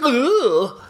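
high mock groan of dismay. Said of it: "And he's like".

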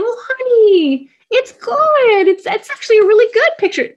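very high sing-song cooing; falsely cheery parent. Acted. Parent to crying child over a picture, over-bright reassurance. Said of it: "you're saying".

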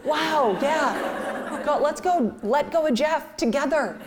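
high-pitched comic consoling; overwrought parent. Retold or imitated. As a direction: retell a parent's strained pep talk, pitched high. Consoling bawling child, comically overwrought.

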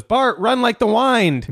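Marge voice. Retold or imitated. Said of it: "And she goes".

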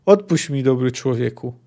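mildly grave request, falling away; sepulchral plea. Acted. Executioner asks the condemned man for forgiveness, gravely. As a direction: ask with a touch of the tomb. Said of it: "poprosił grobowo".

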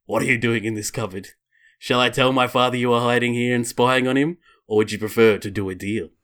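measured storybook reading voice; story narration. Acted. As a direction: read it out like a storybook. Reads character's lines in story.

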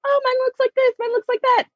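high, prissy mock voice; mocking the sisters. Mimicking the sisters bragging about dresses, high mock voice. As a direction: imitate the sisters showing off dresses. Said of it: "Remember they got new dresses".

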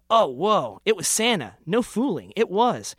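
hammed-up astonishment; astonished. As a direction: marvel at the sight. Narrator astonished at Santa.

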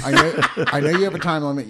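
laughing. Real, not acted. Laughing while talking.

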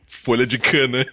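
laughing through the words; giggling while saying it. Real, not acted. Joking about sugar flavour.

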